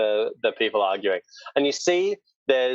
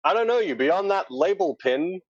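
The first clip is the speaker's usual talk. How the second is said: high-pitched, dismissive captain; objecting captain; 7 semitones higher than usual. Acted. Captain doubts stranger's right to the ship, high objection. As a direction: challenge the stranger, pitched well up. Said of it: "And the captain says".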